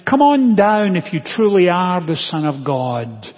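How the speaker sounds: calling out. Retold or imitated. People at the cross to Jesus, calling out. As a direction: call it up loudly to someone above. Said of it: "what did the people there call to him".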